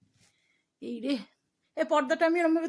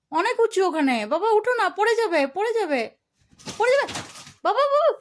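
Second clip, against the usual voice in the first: alarmed calling; 6 semitones higher, 6 dB louder than usual. Real, not acted. Pet climbing the curtain.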